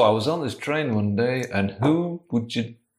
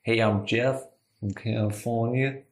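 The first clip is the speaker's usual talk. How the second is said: put-on a light laid-back Californian accent; casual young Californian guy introducing himself; American accent; 4 dB quieter than usual. Improv player voicing Jeff to his co-host, mild American accent. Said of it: "That's what Jeff sounds like".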